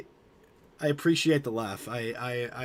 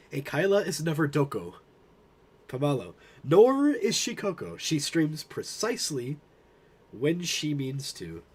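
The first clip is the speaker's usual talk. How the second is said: Gandalf quote. Retold or imitated. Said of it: "Gandalf the Grey, says".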